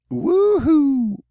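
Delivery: high, loud "woohoo" cheer; excited whoop. Pretend. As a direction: let out a long, high-pitched whoop. Cheering at seeing aurora someday.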